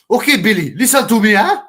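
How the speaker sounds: loud put-on fighter voice telling his trainer to listen; mock boxer replying. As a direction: answer Billy in the put-on fighter voice. Voicing the boxer answering his trainer.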